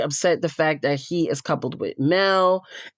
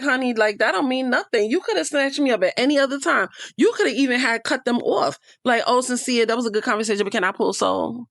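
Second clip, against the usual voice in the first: mock sassy girlfriend voice, pitched higher; imitating her with attitude, higher; higher, sassy imitation of her talking back; sassy comeback; 6 semitones higher than usual. Mocking Soul's comeback to Sincere.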